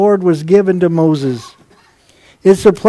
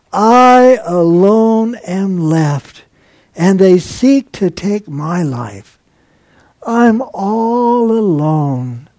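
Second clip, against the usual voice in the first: lonely lament; much slower than usual. Acted. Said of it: "So he said".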